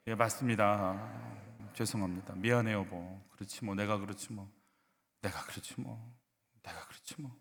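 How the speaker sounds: low, softened admission fading to a near whisper; resigned apology. Shown as a demonstration. Leads repeated practice of admitting fault.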